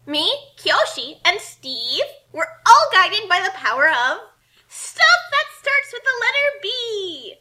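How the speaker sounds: loud, slow, climbing grand proclamation; dramatic declaration. Acted. Kasumi proclaiming to the book villain, loud and grand. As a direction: proclaim it like a hero's final speech.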